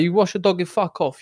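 snappy broken-English Maltese; a little Italian-tinged Maltese; playful Maltese accent demo. Shown as a demonstration. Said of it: "Do a Maltese accent".

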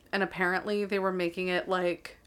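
mid-yawn, words stretched. Real, not acted. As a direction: talk through a yawn. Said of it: "I keep yawning".

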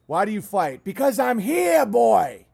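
defiant shout. Real, not acted. Ranting at critics, shouts his defiance. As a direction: roar out that he stands his ground.

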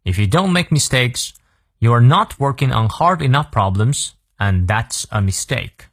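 teacher's careful repeat for learners; model read-through. Shown as a demonstration. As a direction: read the whole quote clearly, drawing out the ending. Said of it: "再来一遍". (领读示范，句尾放慢)

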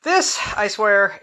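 breathless from garden work; out of breath. Real, not acted. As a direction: talk while catching your breath. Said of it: "If I'm a little out of breath".

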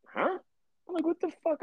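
high, stunned disbelief; mock baffled surprise. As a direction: act utterly confused by the reaction. Confused reaction to boss.

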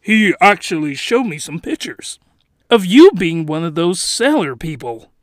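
lightly faked British voice; bad British accent, chatting admiringly; loosely held British character accent; terrible British accent. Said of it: "terrible British accent".

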